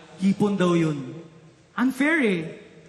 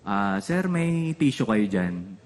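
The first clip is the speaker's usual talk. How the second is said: timid plea to stranger; 10 semitones lower, much slower than usual. Retold or imitated.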